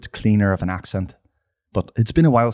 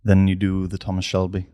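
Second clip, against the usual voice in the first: Thomas Shelby; 3 semitones lower than usual. Acted. Then you do the Thomas Shelby.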